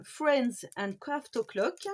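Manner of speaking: English title read with a strong French accent. Real, not acted. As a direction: say the English name the French way, apologetically. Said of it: "désolée pour, euh, mon anglais".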